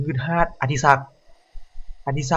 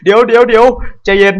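loud, higher frantic cries; alarmed shout; 9 semitones higher, 9 dB louder than usual. Real, not acted. Jump scare, pleading.

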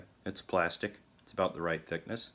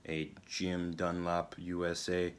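slow, lightly put-on Russian accent; joking Russian accent, words slowly spaced; 3 dB quieter, much slower than usual. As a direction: draw the product name out in mock Russian. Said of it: "gonna drop the accent now".

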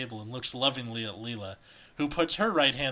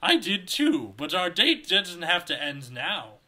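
flirtatious; 5 semitones higher, 5 dB louder than usual. A narrator's reading. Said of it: "says flirtatiously".

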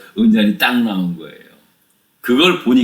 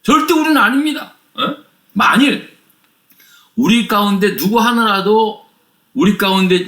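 emphatic high-pitched denial; acted wronged protest; 8 semitones higher than usual. Brothers swearing innocence to the steward, wronged and emphatic. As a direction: swear your innocence with raised pitch, indignantly. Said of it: "또 억울하기도 하고".

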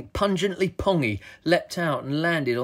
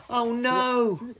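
high, drawn-out alarmed wail; cry of dismay; 10 semitones higher than usual. A narrator's reading. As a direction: wail it as the chase begins. Captain chased by the dog.

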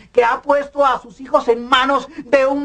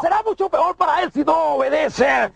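menacing shout; 3 semitones higher than usual. Acted. Threatening a tired boy.

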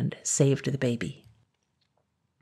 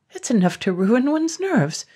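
frazzled dragon; 8 semitones higher than usual. A narrator's reading.

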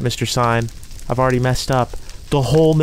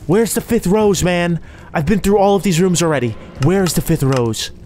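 higher, frustrated complaint; exasperated; 6 semitones higher than usual. Real, not acted. Player cannot find the fifth rose, exasperated. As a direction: whine in exasperation at the search. Fruitless search for last rose.

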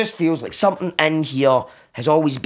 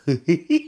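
giggles rising into monkey whoops; acting out a gleeful monkey; cheeky monkey noises; 3 semitones higher than usual. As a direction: cackle and hoot like a mischievous monkey. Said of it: "to being like".

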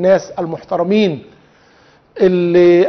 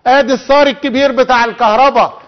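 usual speaking voice

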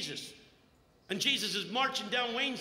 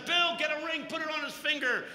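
excited orders; 6 semitones higher than usual. Retold or imitated. Father ordering servants.

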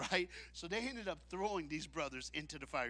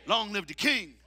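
long live the king, ringing louder; loud proclamation; 4 semitones higher, 10 dB louder than usual. Shown as a demonstration. Preacher lifts the refrain to the church, loud. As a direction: declare it out loud to the room. Soft then loud repetition.

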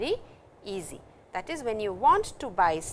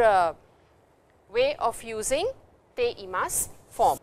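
ordinary talk

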